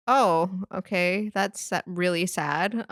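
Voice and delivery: slow, hesitant sympathy; retold stunned, unsure condolence; at a loss. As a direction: respond awkwardly, stretching the words out. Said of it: "I didn't know what to say".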